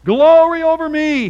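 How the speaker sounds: high, loud and mocking; sarcastic reading. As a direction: toss it off sarcastically. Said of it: "Let's see if Pharaoh's for real".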